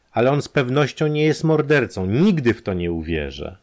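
high, loud desperate protest; near-hysterical. Acted. Izabela near-hysterically defends the arrested man. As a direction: insist almost hysterically. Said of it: "zawołała Izabela niemal histerycznie".

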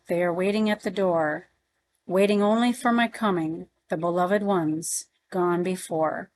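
measured verse recitation; poem reading. Acted. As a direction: read the poem line by line, evenly paced. Reads the chapter's opening poem.

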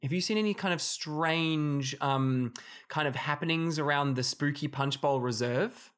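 put-on Irish accent. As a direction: ask the question in a hammed-up Irish voice. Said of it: "I can't do this accent".

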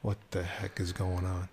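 breathless, worried whisper; alarmed whisper. Retold or imitated. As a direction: whisper it in panic. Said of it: "And I'm like".

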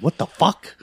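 high-pitched mock outrage; retold disbelief. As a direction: act out being appalled at the wife. Reacts to wife never seeing movie.

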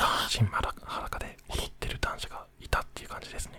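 ひそひそ声. Real, not acted. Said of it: "ひそひそ声で話をしていこう". (寝室でこっそり話すささやき声)

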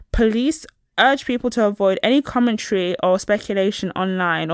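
reading a news report aloud, a touch formal. Acted. Reading the headline to her co-host, lightly formal news read. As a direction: read the article out like a bulletin.

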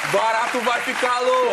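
mock hooligan cheer; rowdy shout. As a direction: holler it from the back seat. Shouted punchline of backseat rowdies story.

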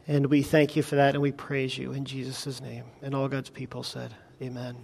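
hushed, fading altar prayer. Acted. Pastor prays for salvation.

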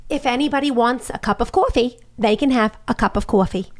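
a light, put-on thick New York accent; Michael Blinderman impression. Her old accent coach offering coffee, lightly voiced with a thick New York accent. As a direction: mildly imitate a gentle man with a heavy New York accent. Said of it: "Here's how Michael Blinderman talked".

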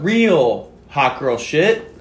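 slow, drawn-out slam poetry delivery; mock dramatic recital; dramatic poem reading. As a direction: read the rap lyric like solemn spoken word. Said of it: "read 'em like a dramatic poem".

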